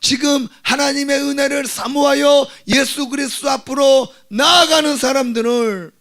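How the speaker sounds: high, loud sermon proclamation; impassioned preacher shouting to the congregation; full-force preaching. Real, not acted.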